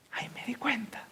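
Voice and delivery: high unvoiced whisper of realisation. Shown as a demonstration. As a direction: hush the repeat to a breath. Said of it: "repeated line". (susurro de revelación)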